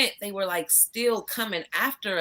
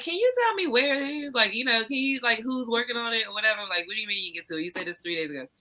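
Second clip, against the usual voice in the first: frustrated; 4 semitones higher, faster than usual. Retold or imitated. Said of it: "And I'm just like".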